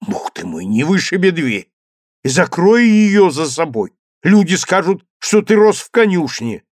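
exasperated mother, loud and high; narrated mother's irritated scolding. A narrator's reading. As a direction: scold the boy for slamming the door.

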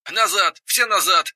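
high, urgent shouted command; captain yelling. Acted. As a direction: bark the retreat order. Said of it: "заорал капитан".

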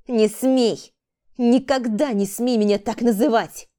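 громкий яростный крик, выше голос; с ударом по щеке, в бешенстве; ярость. Acted. Сорина в ярости бьёт Валерию. (Рита в ярости кричит на Валерию)

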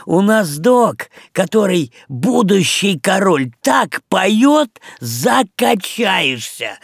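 Мух selling the doc's singing, high and excited; excited fly pitch. Acted. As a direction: hype the doc like an ad. Мух advertising the doc.

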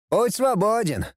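high cheerful call. Acted. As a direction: call down the corridor. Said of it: "позвал он".

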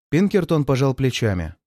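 plain reading voice

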